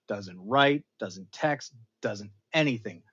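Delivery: normal talking voice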